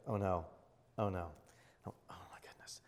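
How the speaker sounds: low, hushed "oh no", fading to a whisper; quietly dismayed, trailing into a whisper; sinking dread. Retold or imitated. Driver realising the boat engine has died, hushed dread.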